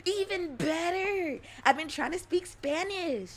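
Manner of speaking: loud, high mock Hispanic accent; playful Hispanic accent. Streamer excusing the voice, loud Hispanic accent. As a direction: exclaim in a put-on Hispanic accent. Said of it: "I just have a Hispanic accent".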